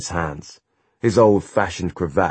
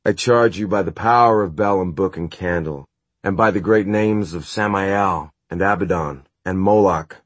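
formal ritual charge, louder; incantation; 3 dB louder than usual. Acted. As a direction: intone it like a solemn spell. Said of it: "reading aloud from the book".

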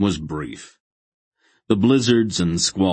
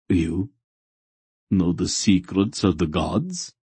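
mildly incredulous question; incredulous demand. A narrator's reading. Fanatic questioning Geryon about the gods' secrets, incredulous. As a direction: ask it in disbelief, lifting at the end. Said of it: "the fanatic demanded incredulously".

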